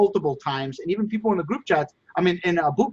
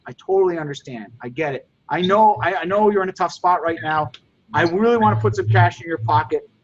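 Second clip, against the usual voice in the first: sincere, empathetic. Shown as a demonstration. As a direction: look them in the eye and truly understand. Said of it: "You gotta say it like you mean it".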